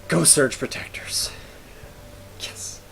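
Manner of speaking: hushed, slow whisper of relief; soft unvoiced victory whisper; whispered cheer. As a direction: breathe out a quiet cheer.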